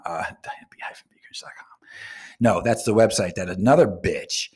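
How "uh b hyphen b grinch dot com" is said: laughing aside. Real, not acted. Repeats website, laughing softly.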